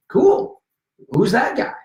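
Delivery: retold eager reply. His own retold eager reply.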